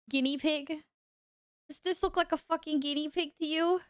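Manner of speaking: high, offended disbelief; mock indignation. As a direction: act outraged at the suggestion. Indignant at chat's guess.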